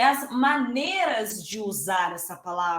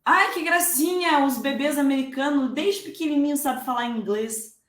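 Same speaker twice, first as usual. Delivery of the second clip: mock cooing; 2 semitones higher than usual. Mocking naive cooing remark.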